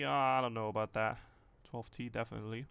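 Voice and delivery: ordinary talk, nothing marked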